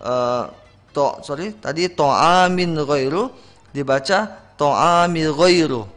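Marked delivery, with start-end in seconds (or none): 1.9-3.3 to'amin ghairu with the 'n' sounded before gh; clear tanwin. Shown as a demonstration. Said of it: "yang benar bukan". 4.6-5.9 to'amil ghairu with no 'n' before gh; dropped tanwin. Shown as a demonstration. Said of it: "Di situ tidak ada tanwinnya".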